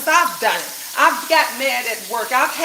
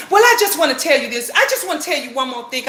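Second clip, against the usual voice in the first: sister's joyful voice; 2 semitones higher, much faster than usual. Retold or imitated. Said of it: "She said it with so much joy and personality".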